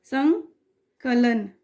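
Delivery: संकलन drawn out slowly, with a clear nasal ं; slow pronunciation. Shown as a demonstration. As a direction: model संकलन slowly for students to copy. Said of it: "उच्चारण में". (संकलन धीरे-धीरे, साफ़ बोलकर)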